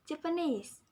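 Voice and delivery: "Japanese" with NESE emphasized, then falling; stress on the suffix. Shown as a demonstration. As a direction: model "Japanese" leaning on its last syllable. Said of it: "The suffixes need to be imposed".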